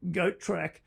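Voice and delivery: laughing. Real, not acted. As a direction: laugh while telling it. Laughing retelling.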